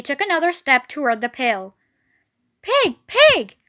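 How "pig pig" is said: high, coaxing kind call. A narrator's reading. Farmer coaxing Wilbur toward the pail, kind voice. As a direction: call the animal kindly, pitched up. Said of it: "in a kind voice".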